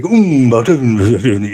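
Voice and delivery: mock mumble, words barely out; mumbling Irish elder. Mimicking older Irish speakers who mumble, mock mumble. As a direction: swallow the words like a grunt. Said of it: "they mumble".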